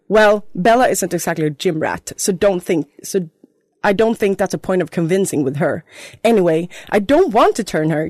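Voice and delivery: hammed-up fanfic reading; story reading. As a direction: read the fan fiction aloud with glee. Reads her fanfiction aloud.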